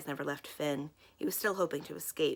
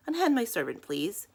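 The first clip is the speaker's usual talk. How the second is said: higher, louder, a lordly command; ordering; 5 semitones higher, 5 dB louder than usual. A narrator's reading. Clovis orders the crows to free his servant, lordly. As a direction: speak down to them with dignity. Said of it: "he ordered the crows".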